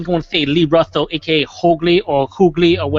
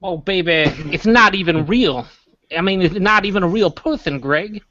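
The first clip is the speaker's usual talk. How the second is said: cartoon buffalo voice. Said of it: "aren't you a buffalo".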